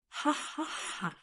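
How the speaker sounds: soft, breath-only "ha ha ha"; slow, whispery mock laugh, barely any volume; soft chuckle. A narrator's reading. Lord Mo amused before his subordinates, soft dry laugh. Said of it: "said with a faint smile".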